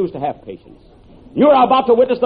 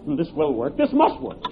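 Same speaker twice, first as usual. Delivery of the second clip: muttered to himself; 2 semitones higher, 7 dB quieter than usual. Acted. Worried aside to himself.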